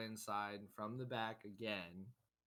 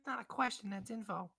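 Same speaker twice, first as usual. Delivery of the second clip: put-on cranky old shopkeeper; 9 semitones higher than usual. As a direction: bark at the adventurers like a fed-up old codger. Shopkeeper corrects the player.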